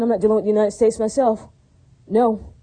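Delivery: firm, emphatic declaration; emphatic refusal. Real, not acted. Speaker refusing any dealings with the United States, emphatic. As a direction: state it emphatically, then a separate, final no. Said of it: "this is me emphatically saying".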